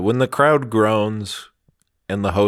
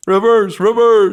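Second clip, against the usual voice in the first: 1 excited repeat; 9 semitones higher, 6 dB louder than usual. Real, not acted. Stressing the movie runs backwards.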